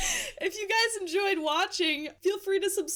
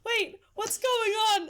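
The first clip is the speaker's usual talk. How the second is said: confused alarm; 5 semitones higher than usual. Retold or imitated. To her sleep-talking roommate, startled confusion. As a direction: sound suddenly startled awake.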